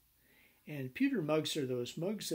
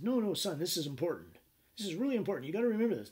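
raised, emphatic father's voice; urgent fatherly insistence; insistent father; 5 semitones higher, 5 dB louder, faster than usual. Retold or imitated. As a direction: drive it home to the son.

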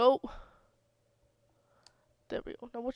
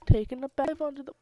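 fast rushed take; 2 semitones higher, faster than usual. Pretend. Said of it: "pff, take two".

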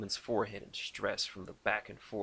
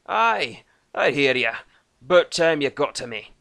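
loud, higher Scottish-Irish brogue; gruff Celtic dwarf voice; 5 semitones higher, 13 dB louder than usual. A narrator's reading. Dwarf Thorgan answering Lucas, Scottish-Irish brogue. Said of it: "mix of Irish, Scottish".

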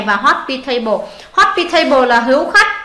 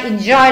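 "enjoy" stressed on its second syllable, joy. Shown as a demonstration. Teacher going over stress answers, second syllable of enjoy stressed. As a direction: lean on the end of "enjoy". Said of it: "là âm hai".

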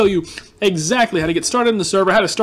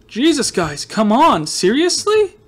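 exasperated whine; 5 semitones higher, slower than usual. Real, not acted. To viewers who bought his stock, exasperated whine. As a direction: pitch jumps up high on seriously. Complaining about shop sold out.

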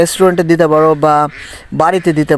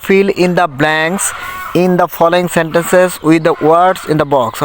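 slow reading aloud; much slower than usual. Shown as a demonstration. Teacher reads English instructions aloud.

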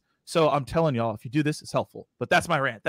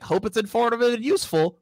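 higher-pitched mock email voice; weird email voice; 6 semitones higher than usual. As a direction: put on a silly voice to mock stock email phrases. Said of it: "So I say it in a weird voice".

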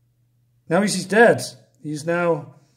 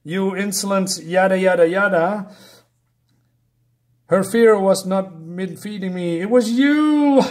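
hammed-up villain booming his accusation; villain shout; 2 semitones higher, 4 dB louder than usual. Mocking the baron as he roars at the traitor, hammy villain shout. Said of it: "and he says".

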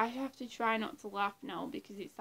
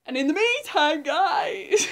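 much louder, higher crazy call to viewers; Jeff Music Man impression; 6 semitones higher, 14 dB louder than usual. Impersonating Jeff addressing viewers, loud manic shout. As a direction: shout it out wildly to the guys. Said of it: "that was my impression of Jeff Music Man".

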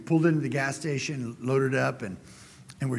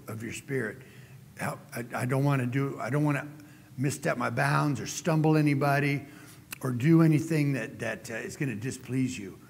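a pastor modeling a heartfelt prayer. Acted. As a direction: pray humbly to God as Daddy. Speaker prays aloud.

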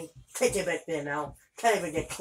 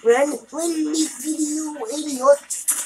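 high, loud, slow yell ending in "idiot"; furious shout; 9 semitones higher, 5 dB louder, much slower than usual. Real, not acted. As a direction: snap at the game in rage. Yelling at enemy who killed him.

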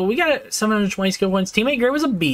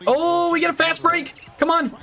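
excited cry; 10 semitones higher than usual. Real, not acted. Fast break chance in game.

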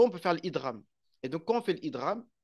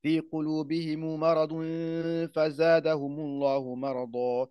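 Quran recitation. Acted. Teacher recites the start of al-Baqara, chanted. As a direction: recite with long held madd.

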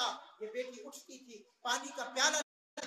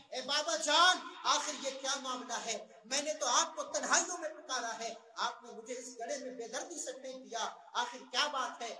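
put-on a louder, preached cry of a girl calling her father; 3 dB louder than usual. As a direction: call out to her father from the pit, half-acted. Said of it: "پکار کر کہتی ہے". (گڑھے سے باپ کو پکارتی بچی، اونچی آواز میں)

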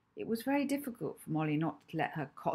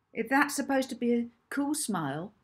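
sneering question, pitched up at the start; Hazel; 5 semitones higher, 4 dB louder than usual. A narrator's reading. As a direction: sneer it as a mocking challenge. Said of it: "asked Hazel with a sneer".

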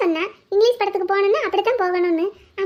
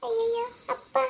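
1 scared gasp; 3 semitones higher, 10 dB quieter, slower than usual. Acted. Caught drinking, sees father coming.

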